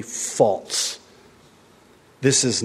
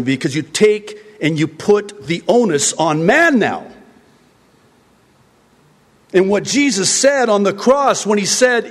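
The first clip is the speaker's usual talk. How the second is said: high, loud impassioned sermon; full-force pulpit preaching, higher and louder; fiery preaching; 9 semitones higher, 3 dB louder than usual. Acted. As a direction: preach it with rising fervour.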